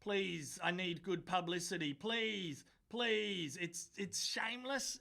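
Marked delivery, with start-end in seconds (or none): 0.0-3.6 soft, whiny pleading, quieter; mock begging. Mocking the Prime Minister's photo op, soft whiny pleading. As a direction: beg for good press like a needy politician. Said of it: "his actions are just like".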